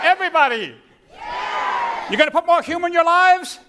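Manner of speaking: loud rally to the crowd; shouting. Real, not acted. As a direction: call out to rouse the audience. Rallying the audience to answer.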